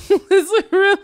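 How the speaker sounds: high, laughing imitation of the owner; high-pitched, giggly mock insistence; laughing mock quote. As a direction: squeal it mockingly through laughter. Laughs while mocking owner's claim.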